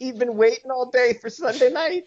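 squeaky high voice; sing-song high pitch; helium voice. Acted. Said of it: "He's been in helium voice".

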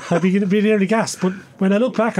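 laughing through the words. Real, not acted. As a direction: chuckle while saying it. Laughing at his own story.

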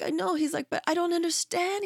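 put-on hurt child trying to make sense of it; son's voice. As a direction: ask it like the puzzled boy.

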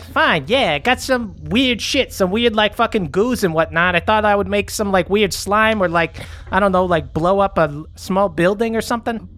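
put-on high, bratty teenage kid talking back; mouthy teen. Teen kid talks back to his mom, high and bratty. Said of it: "And just like".

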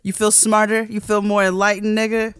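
mock-concerned taunting question; sarcastic. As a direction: needle them with fake concern. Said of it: "my favorite response is".

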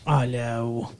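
a soft, low mock come-on from Spike; imitating Spike. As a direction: croon it like a sleazy charmer, half-hearted. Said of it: "It's a weird, like".

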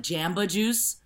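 "Jamba" with a flat A as in jam; "Jamba" rhyming its first syllable with ham; mispronounced Jamba. Shown as a demonstration. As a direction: say "Jamba juice" with the childhood A of "cat". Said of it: "I would pronounce things, uh, wrong".

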